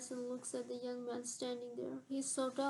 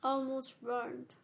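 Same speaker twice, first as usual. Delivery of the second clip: with conviction; 4 dB louder, slower than usual. Acted. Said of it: "he says with conviction".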